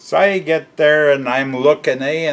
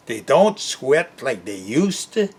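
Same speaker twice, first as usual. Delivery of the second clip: sigh, then repeat it back with a questioning rise; can't believe he said that; incredulous echo. Real, not acted. Echoing the clerk's excuse back in disbelief, rising at the end.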